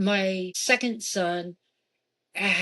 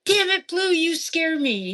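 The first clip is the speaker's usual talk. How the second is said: high, loud startled outburst, slowing at the end; startled yelp; 9 semitones higher, 5 dB louder than usual. Retold or imitated. Startled by the ghost Blue while carrying laundry, high yelp. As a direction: blurt it out like you just got spooked. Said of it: "And I'm like".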